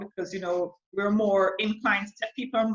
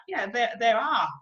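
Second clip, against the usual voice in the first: ordinary talk, nothing marked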